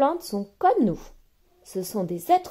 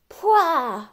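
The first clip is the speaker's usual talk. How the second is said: storyteller's higher, surprised yuck; surprised disgust; 7 semitones higher, slower than usual. Acted. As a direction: recoil from the chemical smell. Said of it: "s'écrie-t-il surpris".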